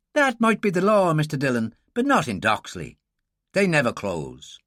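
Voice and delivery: a light wry dig; wry Irish girl. Acted. Girl explaining the village pub, wry Irish voice.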